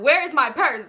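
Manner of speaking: high-pitched worried demand; retold panic. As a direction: act out panicking over something lost. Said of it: "And I was panicking".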